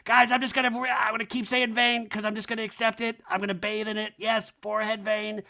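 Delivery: high mock declaration; hammed-up high-pitched resolve; Kyle. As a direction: announce it high, as an impression. Acting out Kyle embracing her vein.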